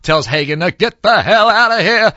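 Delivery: upset tirade. Retold or imitated. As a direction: rant like a furious studio boss. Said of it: "he gets all upset".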